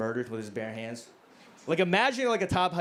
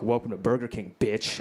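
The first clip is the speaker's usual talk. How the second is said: action hero one-liner; 5 semitones lower than usual. Acted. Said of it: "sounds cool but makes no fucking sense".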